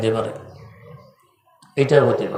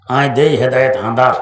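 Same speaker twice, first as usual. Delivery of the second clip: louder, in broad Noakhali dialect from the pulpit; 5 dB louder than usual. Retold or imitated. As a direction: preach it in thick Noakhali dialect. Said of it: "মাইকে নোয়াখালীর ভাষায়". (নোয়াখালীর আঞ্চলিক ভাষায়, জোরে)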